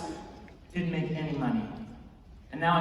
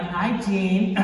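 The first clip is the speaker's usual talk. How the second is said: fangirling hello. Retold or imitated. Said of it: "straight up fangirling".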